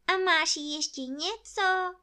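high, loud bear voice; quick, eager question. A narrator's reading. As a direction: ask at once, pitched right up. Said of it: "zeptal se Pů rychle".

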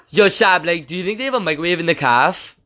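lightly voiced lisping kid; a hint of the lisping classmate; Muzz. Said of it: "and he was like".

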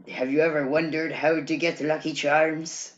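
lightly voiced old narrator; a touch of an aged storyteller. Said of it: "it's like this old, like, voice narrator".

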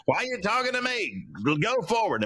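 high-pitched mock exasperation; God's impatient retort, imitated. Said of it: "He's like".

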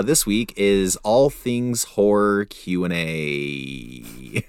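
slow announcer voice. Acted. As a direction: announce it slowly like a host. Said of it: "an announcer voice".

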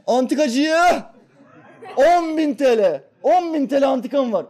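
slow, high, loud hawker call, laughing; mock antique dealer cry. Joking about an antique dealer hawking in the street, slow high mock cry. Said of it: "duydunuz mu hiç".

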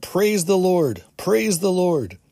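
slow, high, loud shouts of praise; yelled praise. A narrator's reading. Healed man shouting praise at the meeting, slow loud yell. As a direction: belt it out with his new voice. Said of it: "At the top of his voice, he yelled".

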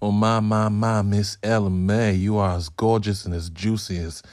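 put-on barely-there Southern gentleman accent. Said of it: "I don't sound like someone from the South".

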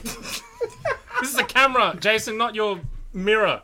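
slow, laughing tease. Real, not acted. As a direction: laugh through the words. Teasing a co-host while laughing.

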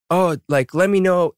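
a light Aussie lilt on "let me know"; Aussie accent. Retold or imitated. Mimicking Chan's Aussie offer, light Aussie accent. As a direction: imitate a casual Aussie offer, understated. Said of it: "in his Aussie accent".

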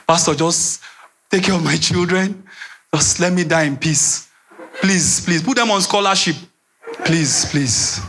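low, resigned pleading to the pastor; dying plea. Acted. Sick patient entrusting children to the pastor, low resigned plea.

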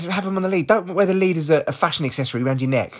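hint of a snippy neighbour telling him off; mocking the neighbour. Retelling the neighbour's jibe, a touch mocking. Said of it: "she said".

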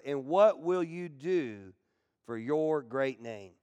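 scripture reading. Acted. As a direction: read it like an anguished plea. Preacher reads Joshua's prayer.

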